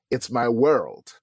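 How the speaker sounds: slow, spaced-out, deliberate words; weighty, measured pronouncement; the Lord speaking clearly. Retold or imitated. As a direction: quote God slowly and clearly, word by word. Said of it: "heard the Lord speak so clearly".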